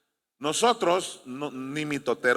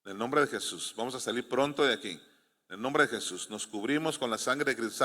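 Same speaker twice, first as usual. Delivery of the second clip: low, soft, calm praying; softly spoken reassurance in prayer; composed, positive prayer; 5 semitones lower, 5 dB quieter than usual. Acted. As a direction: pray quietly with self-control. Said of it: "tú vas a tener pensamientos positivos".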